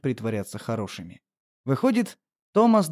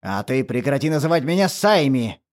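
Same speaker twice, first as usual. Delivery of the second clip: roar; 4 dB louder than usual. Acted. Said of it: "взревел он в ответ".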